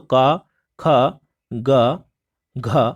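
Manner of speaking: का ख ग घ from the throat, with pauses; guttural consonants recited. Shown as a demonstration. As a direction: sound out का, ख, ग, घ from the back of the throat. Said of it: "कंठ की बात करते हैं". (कंठ्य व्यंजन एक-एक करके)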